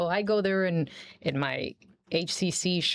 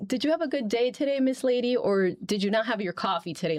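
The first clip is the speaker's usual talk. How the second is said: put-on curious kid; 5 semitones higher than usual. Teacher retells kids' teasing question in a mock kid voice. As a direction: play the kids teasing their teacher. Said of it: "they have asked me".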